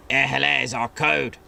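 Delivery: a hint of a plummy upper-class gent; lightly voiced posh officer. Wingy giving the club's password, lightly posh. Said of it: "impossible not to sound posh".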